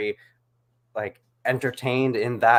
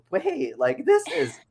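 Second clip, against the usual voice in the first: realization; 2 semitones higher than usual. Retold or imitated. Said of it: "I was like".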